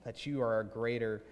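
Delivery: earnest spoken prayer in measured phrases; congregational prayer. Real, not acted. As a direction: address God with deliberate pauses. Leads the closing prayer.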